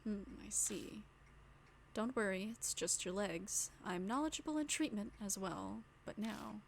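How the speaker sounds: calm voice. Acted. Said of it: "Man's calm voice".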